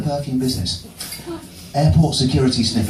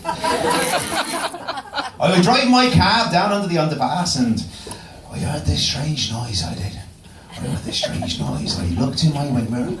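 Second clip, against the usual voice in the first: put-on country accent. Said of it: "generic country accent".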